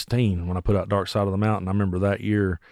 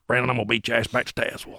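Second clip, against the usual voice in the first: Poe; 4 dB quieter than usual. Retold or imitated. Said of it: "a running joke now between me and Poe".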